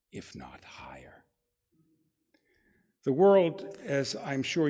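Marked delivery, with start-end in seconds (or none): 0.1-1.2 low, slow, hushed whisper; quiet whisper. Acted. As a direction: breathe it out under your breath, much softer. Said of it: "He only adds quietly".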